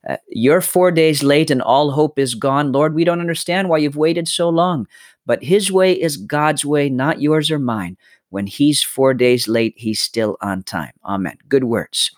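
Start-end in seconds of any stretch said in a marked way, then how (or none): 0.3-10.9 recited lyrics. Retold or imitated. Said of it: "those lyrics of a singer's song".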